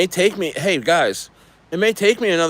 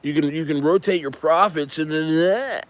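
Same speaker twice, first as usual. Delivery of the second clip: mock dev sales pitch; 3 semitones higher than usual.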